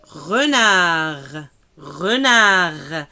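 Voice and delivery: "Renard" ending on r, no D; silent D. Shown as a demonstration. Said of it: "la lettre D, on l'a pas prononcée". ("Renard" sans le D)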